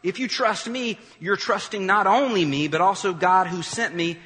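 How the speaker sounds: loud and high, calling out to a crowd; Jesus shouting. Acted. Jesus shouts to the crowds about trusting him, loud and high. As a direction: shout it to the crowds, slowing on when you see me. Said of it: "Jesus shouted to the crowds".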